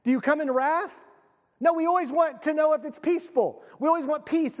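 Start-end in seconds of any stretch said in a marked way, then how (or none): 0.0-0.9 raised, rising "Do you come in wrath?" with wrath stressed; a pointed, raised alternative question; higher mock question. Shown as a demonstration. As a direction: ask it higher, leaning on wrath. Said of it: "why do we ask that?".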